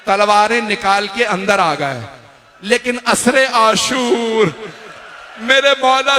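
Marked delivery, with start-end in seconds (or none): 5.4-6.2 rising wail. Real, not acted. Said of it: "चीख चीख के कह रहे".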